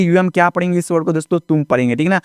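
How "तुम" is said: तुम with a short oo vowel; correct pronunciation. Shown as a demonstration. Teacher reads the new word to learners, correct तुम with short oo. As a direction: say तुम with oo, never oh. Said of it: "तोम नहीं पढ़ना है, तुम पढ़ना है".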